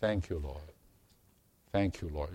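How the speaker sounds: light New Zealand accent imitation; a hint of a New Zealand accent. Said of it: "in his New Zealand accent".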